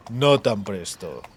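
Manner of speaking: slow and low, holding them back; drawn-out calm restraint; restraining, slow. A narrator's reading. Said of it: "le contuvo Bonhart". (despacio, conteniendo)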